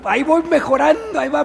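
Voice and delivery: sudden bright shout; half-joking shout of progress; cheerful outburst. Real, not acted. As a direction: burst out proudly. Self-deprecating admission of progress.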